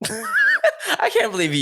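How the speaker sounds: laughing as he speaks; real laughter. Real, not acted. Amused at his co-host's example, laughing while talking.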